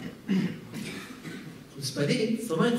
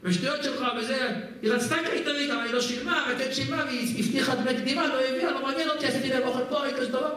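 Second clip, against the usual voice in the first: cook's complaint; 5 semitones higher than usual. Retold or imitated. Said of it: "הוא אומר".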